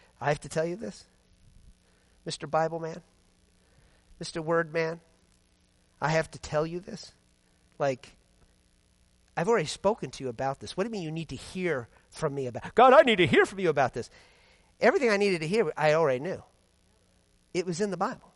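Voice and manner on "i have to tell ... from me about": low, hushed, deeply let-down, very disappointed voice. Speaker retells a voice that came to mind half asleep: retelling a very disappointed voice. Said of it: "Very disappointed voice, like".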